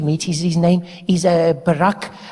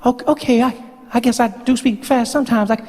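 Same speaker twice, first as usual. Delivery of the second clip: high voice slowing down; 5 semitones higher than usual. Acted. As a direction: still high but easing the pace. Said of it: "That's better".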